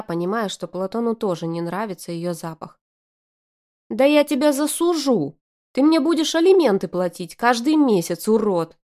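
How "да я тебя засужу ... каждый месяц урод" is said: high, loud furious scream. A narrator's reading. Arina threatening to sue him, screaming. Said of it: "заорала ещё громче Арина".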